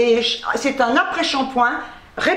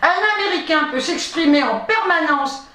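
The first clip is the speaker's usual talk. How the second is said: raised, measured reading voice; reading aloud. Real, not acted. Vlogger reads copy-pasted research to viewers, reading aloud. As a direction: read out a medical definition.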